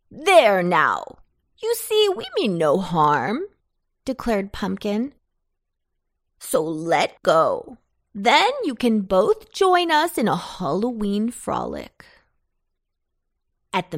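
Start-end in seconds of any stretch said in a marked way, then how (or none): 0.1-3.5 louder soothing reassurance; calm them, jolly; reassuring pumpkin. Acted. 6.4-12.0 coaxing pumpkin. Acted.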